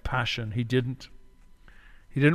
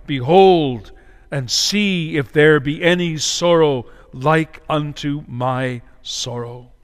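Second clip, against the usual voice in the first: lamenting cry; 4 dB louder, slower than usual. Acted. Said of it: "Well doth he cry".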